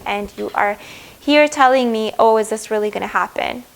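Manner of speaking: lightly annoyed, playful scolding. Retold or imitated. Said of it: "it's like they're annoyed".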